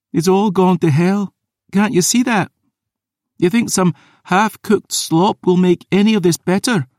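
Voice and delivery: shrill despairing fury; furious outburst. Acted. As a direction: lash out in bitter anger. Isla rages, slaps bowl.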